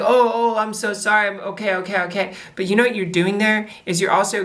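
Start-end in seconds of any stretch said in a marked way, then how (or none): 0.0-2.3 flustered mock apology. Friend apologizing after being corrected, lightly flustered. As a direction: imitate a chastened, hasty apology.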